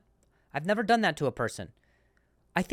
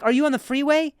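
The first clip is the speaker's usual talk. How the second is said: loud exasperated question; 8 semitones higher, 5 dB louder, faster than usual. Retold or imitated. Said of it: "I'm like".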